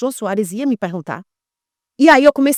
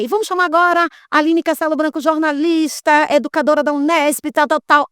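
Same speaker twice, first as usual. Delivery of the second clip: a host's announcement, pitched higher, stretching out jornalista; talk show host; 5 semitones higher than usual. Retold or imitated. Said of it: "ele fez assim".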